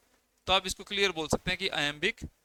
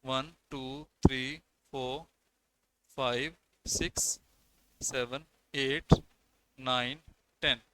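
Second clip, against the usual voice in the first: counting syllables; 3 semitones lower, 3 dB quieter, slower than usual. Shown as a demonstration. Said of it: "यहाँ पे ten syllable use हुए हुए हैं".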